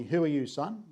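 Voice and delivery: lightly imitated English accent; strong English accent. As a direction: imitate an English school principal questioning a boy. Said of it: "with a very strong English accent".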